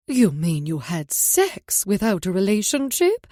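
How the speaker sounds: mocking faux British accent, slow and loud; hammed-up British accent poking fun. Mom mocks the idea in a faux British accent. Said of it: "in a faux British accent that mocked the idea".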